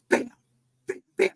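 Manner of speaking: spaced-out vocal bangs; imitated banging. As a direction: mimic thuds answering back. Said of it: "the more you hear this".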